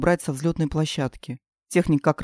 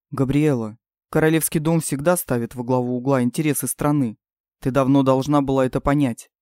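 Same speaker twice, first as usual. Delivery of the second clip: a hint of a stern king; low steady royal father; lower king voice; 3 semitones lower than usual. King's voice again.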